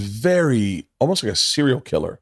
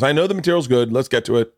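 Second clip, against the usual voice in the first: higher-pitched, brisk imitation of a dismissive wife; 5 semitones higher than usual. Wife giving notes on her husband's special, dismissive. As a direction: wave it away while giving editing orders. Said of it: "really dismissive".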